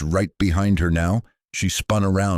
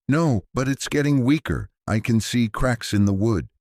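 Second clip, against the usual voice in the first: high, loud frightened plea; panicked; 7 semitones higher, 3 dB louder than usual. Acted. Sarah tells the priest the door is breaking, high and panicked. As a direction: she sees the door cracking and panics.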